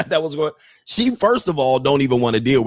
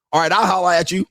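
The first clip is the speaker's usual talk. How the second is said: lightly mimicking the guy's parting line; a hint of a smooth street guy; mocking imitation; 4 semitones higher, faster than usual. Mocking the guy who hit on her, lightly voiced. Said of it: "How are you gonna holler at her later".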